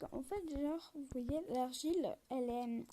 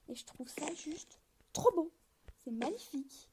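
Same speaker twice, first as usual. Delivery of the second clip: whispered awe. Real, not acted. Admiring a build, late night.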